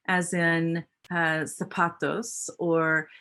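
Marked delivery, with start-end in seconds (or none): 1.4-2.5 zapatos with the z said as s; zapatos, s not z; Spanish zapatos. Shown as a demonstration. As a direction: say zapatos with a hissed s, no buzz. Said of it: "z is pronounced with the s sound".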